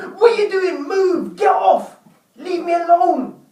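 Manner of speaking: quick-tempered high outburst. Explaining how a shouting habit forms, the speaker demonstrates: demonstrating shouting. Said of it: "the smallest things that you're shouting".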